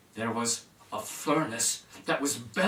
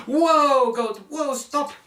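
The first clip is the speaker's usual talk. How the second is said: loud, high call to the goat; Silly Hands stopping his goat, loud and high; calling whoa; 9 semitones higher, 7 dB louder, much slower than usual. Acted. Reining in the billy goat.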